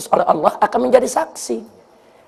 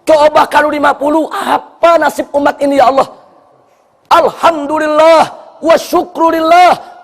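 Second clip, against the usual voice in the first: grateful prayer. Acted. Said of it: "Supaya dia bersyukur".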